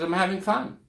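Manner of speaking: high-pitched Australian accent, lightly mimicked; playful imitation of an Australian woman; imitated Australian accent. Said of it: "in an Australian accent".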